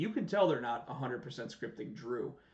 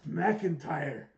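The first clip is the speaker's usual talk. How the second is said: imitating Drew. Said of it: "and it's like".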